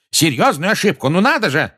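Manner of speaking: loud, high, incredulous echo; scornful shouted retort; outraged yell. A narrator's reading. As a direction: throw the words back in angry disbelief. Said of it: "заорал Фадж".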